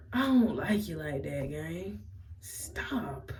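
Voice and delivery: softly rejecting the friend's flirting; soft dismissal. Retold or imitated. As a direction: let him down quietly. Turning him down softly.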